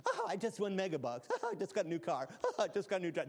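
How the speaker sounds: mock giddy with giggles. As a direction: play a shallow, giggly shopper. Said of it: "I'm not talking about giddy".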